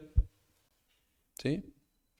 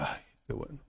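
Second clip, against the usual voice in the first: ordinary talk, nothing marked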